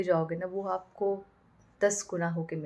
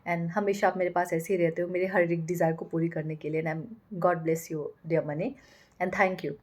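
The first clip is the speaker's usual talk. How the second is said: grateful blessing; 2 semitones lower, 3 dB quieter than usual. Shown as a demonstration. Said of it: "पैसा देते time भी bless करती हूँ".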